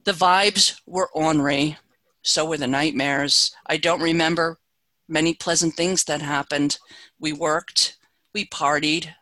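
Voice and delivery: measured, deliberate poem reading; poetry reading. Acted. Reads poem The Marriage Pot.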